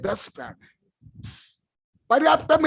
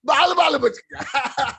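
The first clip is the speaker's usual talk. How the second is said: slow, amused saying, half laughing; laughing quote; 3 semitones higher, 4 dB louder, slower than usual. Retold or imitated. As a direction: chuckle through the common saying. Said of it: "Hindi में सब बोलते हैं". (हँसते हुए मुहावरा दोहराना)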